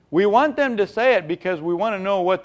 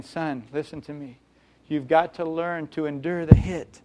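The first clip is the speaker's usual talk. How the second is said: quieter, gentle father counselling his son; tender paternal advice, softer; softer fatherly plea; 4 dB quieter than usual. Acted. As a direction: coax him gently to listen. Proverbs voiced as a father.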